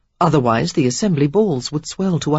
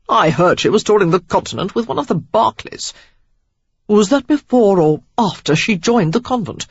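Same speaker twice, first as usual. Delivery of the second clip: put-on gossiping young man; 4 semitones higher, 5 dB louder than usual. A narrator's reading. Rakes gossip over rumours.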